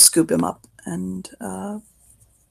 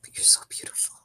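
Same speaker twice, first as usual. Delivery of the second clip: soft, hushed whisper; 12 dB quieter, faster than usual. Acted. Drugged man petting her face, whispering. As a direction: murmur it without voice.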